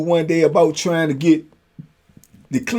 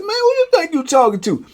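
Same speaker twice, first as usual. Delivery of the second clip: mock yell; 13 semitones higher than usual.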